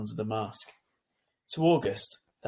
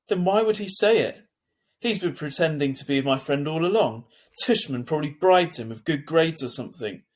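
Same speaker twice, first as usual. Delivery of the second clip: upset; 4 semitones higher, 5 dB louder than usual. Acted. Boy hurt, angry at friend.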